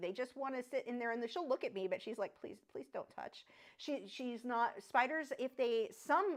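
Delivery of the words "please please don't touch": hushed, frightened, timid little tarantula-voice whisper. Acting out a frightened tarantula: tarantula impersonation. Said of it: "that was my tarantula impersonation".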